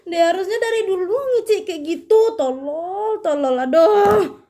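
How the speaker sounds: high laughing complaint; laughing rant. Real, not acted. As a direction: laugh and scold the character. Reader mocks the story.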